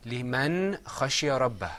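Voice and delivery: لمن خشي ربه recited clearly, phrase by phrase; model recitation. Shown as a demonstration. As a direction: lead the class through لمن خشي ربه. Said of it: "Say that with me all together".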